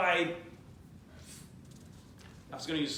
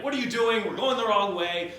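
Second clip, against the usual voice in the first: mock yell; 3 semitones higher, 4 dB louder than usual. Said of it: "the governor starts yelling at the driver".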